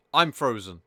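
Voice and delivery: loud exclamation climbing high; loud disbelief. Real, not acted. Gamer to viewers as all animations stop, loud disbelief. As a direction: exclaim loudly in real disbelief. Game freezes, player exclaims.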